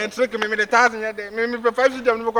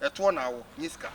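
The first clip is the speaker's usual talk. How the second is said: soft begging; 7 semitones lower, 12 dB quieter than usual. Acted. Begging sister for money.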